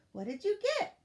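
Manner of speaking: high, loud, curious question; eager asking. A narrator's reading. Elf asking friends about their gifts, eager and high. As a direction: ask excitedly, voice shooting up.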